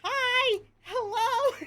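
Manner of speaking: high, loud giggly squeal; proper shout-out. Pretend. Streamer greets another new follower, excited squeal. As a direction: squeal the hellos brightly and break into laughter. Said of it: "do the proper fucking shout out".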